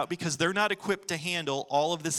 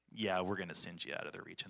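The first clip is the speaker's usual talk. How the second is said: calm firm Jesus; 10 semitones lower, 11 dB quieter than usual. Retold or imitated. Jesus voiced in retelling.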